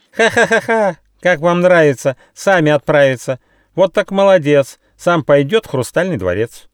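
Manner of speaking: very high, loud cackle into jeering rhyme; shrill, hammed-up bird taunt; shrieking kookaburra. A narrator's reading. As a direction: screech mockingly like a laughing bird. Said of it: "закричала Кукабура".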